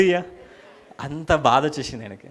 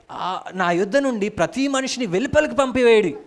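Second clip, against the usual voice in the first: raised, high-pitched command; loud cry; 9 semitones higher, 4 dB louder than usual. Acted. Joseph ordering everyone out of his presence, crying out loudly. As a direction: cry out an order to clear the room. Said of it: "బిగ్గరగా చెప్పి గట్టిగా అరిచాడట".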